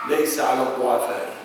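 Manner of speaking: fast chanted Arabic recitation; Quran recitation. Acted. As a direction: recite the verse in a rapid chant. Quoting a Quran verse in Arabic.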